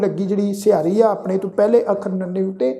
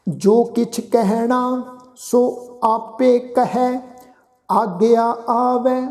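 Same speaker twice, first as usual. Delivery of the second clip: slow, drawn-out sacred recitation; measured Gurbani reading, sustained line endings; scripture recitation; 2 semitones higher, much slower than usual. Shown as a demonstration. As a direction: chant each phrase slowly with long held vowels.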